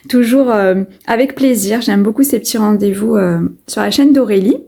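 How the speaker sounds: croaky vocal fry of just waking; rough morning vocal fry. Real, not acted. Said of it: "j'ai ma voix du matin". (voix du matin éraillée)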